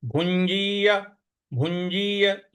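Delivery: भुंजीय with a clear इया ending, said slowly; slow demo. Shown as a demonstration. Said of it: "इस प्रकार से बोलेंगे". (भुंजीय में इया का उच्चारण)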